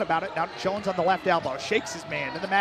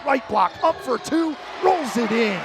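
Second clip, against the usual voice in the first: excited call; 3 semitones higher, 4 dB louder than usual. Real, not acted. Call of a made layup.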